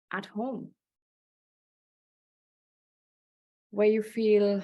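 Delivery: measured phrases with long pauses between them; guided visualization. Acted. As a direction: lead listeners into an imagined scene, leaving space after each phrase.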